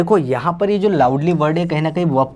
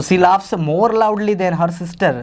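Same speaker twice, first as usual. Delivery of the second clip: slow dictation; 3 semitones higher, much slower than usual. Shown as a demonstration. Teacher reads example sentence aloud.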